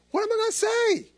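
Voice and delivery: high, anxious cry to himself; sudden panic; panicked thought. Retold or imitated. Preacher dreading his visit to Donna, panicked.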